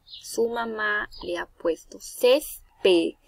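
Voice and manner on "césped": "césped" slowly, with CÉS held; stress on first syllable. Shown as a demonstration. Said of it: "aquí llevará".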